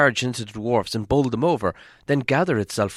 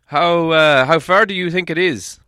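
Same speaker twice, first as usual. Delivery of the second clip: dwarf leader asking; 8 semitones higher, 9 dB louder than usual. A narrator's reading. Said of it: "asked Thorin".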